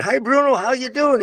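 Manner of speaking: cheery greeting. Retold or imitated. Meeting Bruno in an alley years later, retold cheery greeting. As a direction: greet him like an old pal. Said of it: "I said".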